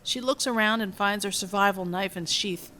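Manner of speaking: measured, even script reading; screenplay narration. A narrator's reading. Reads film script aloud.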